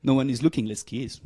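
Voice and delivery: a doll urging a kiss; toy figure whisper. Pretend. Voicing toy figures kissing.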